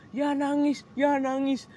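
high, loud sing-song "you're crying"; friends teasing. Retold or imitated. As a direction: tease in a chant. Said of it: "teman-temanku pada ngomong".

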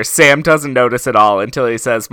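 normal talking voice

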